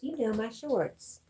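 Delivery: teasing Southern lilt, drawn out; playful Southern accent. Pretend. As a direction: stretch it out in a put-on Southern accent. Playing with Southern accent, repeated phrase.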